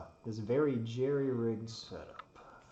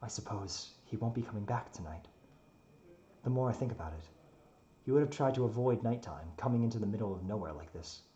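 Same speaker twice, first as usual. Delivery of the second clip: in-character story narration. A narrator's reading.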